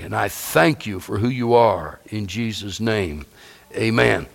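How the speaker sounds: low, hushed, devout prayer; spoken prayer. Acted. Preacher praying to the Lord before his congregation, hushed and devout. Preacher prays aloud mid-sermon.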